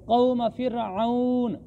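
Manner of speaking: फ़िरऔन drawn out and closed on n; slow recitation, stop on the n of फ़िरऔन; pausal ending. Shown as a demonstration. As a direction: hold the last syllable of फ़िरऔन, then halt. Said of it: "जब वक्फ करेंगे तो फिर जज़्म आ जाएगी".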